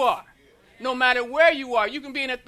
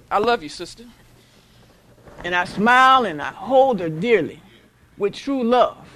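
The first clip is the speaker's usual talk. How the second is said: tender greeting; 4 semitones lower, 5 dB louder than usual. Acted. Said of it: "come over here and say".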